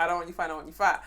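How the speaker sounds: a hint of Jamaican granddad; Jamaican accent. Granddaughter repeating granddad's saying for a friend, in a Jamaican accent. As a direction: imitate him in a light Jamaican accent. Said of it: "in his Jamaican accent".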